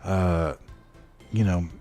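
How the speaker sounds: a lightly acted guilty father letting his son down; apologetic dad. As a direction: stammer through the apologies like a dad who hates leaving his son. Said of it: "I made my own backstory too sad".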